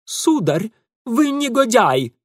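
high, loud, outraged accusation; indignant. A narrator's reading. Ingvar on the pier accusing Mitya, outraged. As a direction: hurl it at him, scandalized. Angry young man on the pier.

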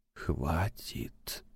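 soft whispered word, voice almost gone. A narrator's reading. Alone in the dark flat, whispering to himself. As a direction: breathe it out in a whisper. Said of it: "прошептал он".

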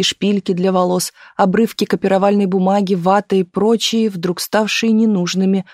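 usual speaking voice

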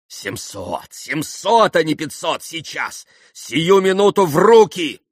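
building to a loud, high cry; anxiously raising the offer. A narrator's reading. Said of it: "надбавил Митя, почувствовав нечто нехорошее". (тревожно, всё громче набавляя цену)

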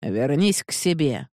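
slow, dismissive command without looking; curt order. Acted. Magistrate sending the woman home, curt order. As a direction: brush her off with an order. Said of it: "не глядя, приказал он Панае".

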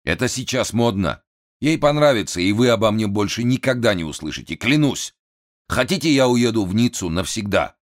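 высокий взвинченный голос хана; капризный напуганный вельможа; нервный хан. A narrator's reading. (взвинченный голос хана)

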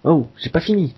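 mock exasperated boss; angry boss. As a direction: playfully scold as the boss. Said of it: "Le patron s'énerve".

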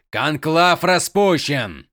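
slow, weighty announcement; stern proclamation. Acted. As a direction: proclaim it slowly and coldly. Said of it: "объявил он". (суровое, медленное объявление)

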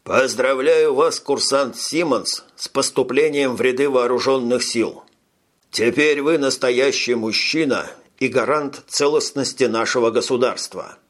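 formal, ceremonious captain; solemn. Acted. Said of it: "торжественно произнёс".

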